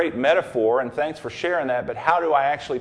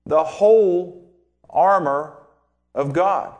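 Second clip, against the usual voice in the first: "whole" hit louder and higher; stress on whole; 3 semitones higher, 4 dB louder, slower than usual. Shown as a demonstration. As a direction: punch "whole" hard to insist on it. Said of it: "critical to say the same thing again".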